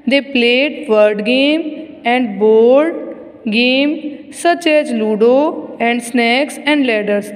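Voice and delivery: very slow, word-by-word reading; measured classroom reading with drawn-out words; textbook read-aloud. Acted. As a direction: read it out slowly for young pupils. Reads textbook aloud slowly.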